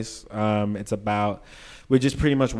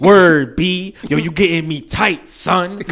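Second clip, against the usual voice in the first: higher, punchy Brooklyn slang imitation; mock Brooklyn accent; 5 semitones higher, 7 dB louder, slower than usual. Outsiders showing off slang to a Brooklyn native, mock Brooklyn accent. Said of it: "that's exactly how they say it".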